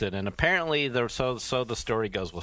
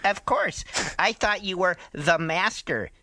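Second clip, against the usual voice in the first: dramatic reading; 5 semitones higher than usual. Acted. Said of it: "do a dramatic reading".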